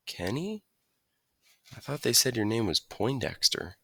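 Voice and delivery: put-on a friendly Southern farm boy teasing; new kid from Arkansas greeting Kenny; country boy. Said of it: "his country style of talking".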